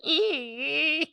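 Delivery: loud, high, laughing through the words. Real, not acted. Joking to friend about shameless men, laughing. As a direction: crack up as you say it. Cracking up at own shameless remark.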